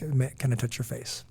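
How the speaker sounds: softly whispered question, barely voiced; gentle whisper. Father whispering softly to his daughter before blessing her. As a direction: lean in and whisper it tenderly.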